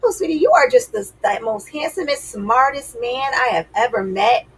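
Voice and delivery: butter him up like a doting wife; mother praising dad. Retold or imitated. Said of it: "I would hear her say these things".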